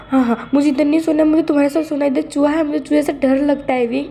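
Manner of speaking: high, whiny frightened boss; a lightly hammed-up scared man; scared Wang ji. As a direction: plead in mock panic about the mouse. Wang ji begs to share bed.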